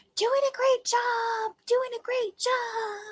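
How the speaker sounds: high-pitched whisper. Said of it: "whispering into my ear".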